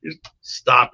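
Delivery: in awe, won't hear of it; incredulous. Retold or imitated. Retold disbelief at Ivan's request.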